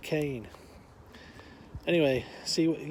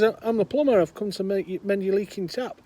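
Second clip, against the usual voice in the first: raised, loud plumber at the door; plumber calling out; 6 semitones higher, 7 dB louder than usual. Acted. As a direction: announce yourself through a closed door. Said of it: "He says".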